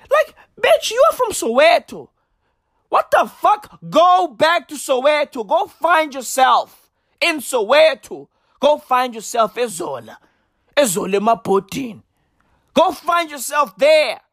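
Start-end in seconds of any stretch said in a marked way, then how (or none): 0.1-9.5 incredulous, exasperated outburst, voice flying up; exasperated rant. Real, not acted. Scolding a friend who travels to find herself, exasperated high outburst. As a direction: pitch jumps high in disbelief.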